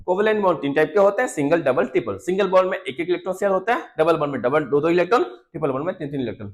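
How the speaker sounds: quick revision recap; rapid-fire classroom summary; speaking fast. Real, not acted. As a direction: rattle through the list quickly. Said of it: "fast बोल रहा हूँ".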